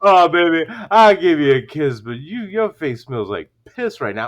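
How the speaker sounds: deep-voiced retold let-down; a singer. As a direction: imitate him, sinking into a deep murmur. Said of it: "Chuck Berry goes".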